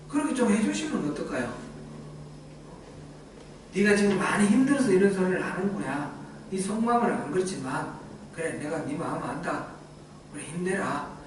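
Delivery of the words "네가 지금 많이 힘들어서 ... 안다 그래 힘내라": consoling. Pretend. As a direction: ease him gently, a lightly voiced kind God. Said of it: "이렇게 좀 위로해주면".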